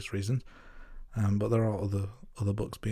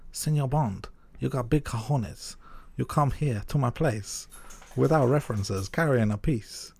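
slow, hammed-up Latino accent; Sanchez accent; 3 semitones higher than usual. Host quotes Sanchez to Bond, badly faked Latino accent. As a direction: play the villain in a bad mock Latino accent. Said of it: "it's not even his accent".

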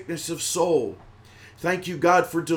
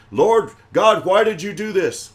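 louder, higher cry of protest; mock complaint to God; 4 semitones higher, 6 dB louder than usual. Someone questioning God, in a loud complaint. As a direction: call out an accusing question to heaven.

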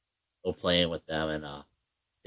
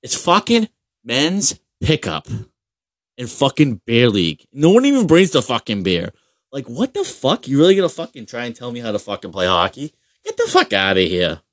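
annoyed rant; 4 semitones higher, 3 dB louder than usual. Retold or imitated. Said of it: "I'm like".

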